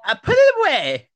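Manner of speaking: shouting wife voice. Acted. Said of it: "I'll be the wife".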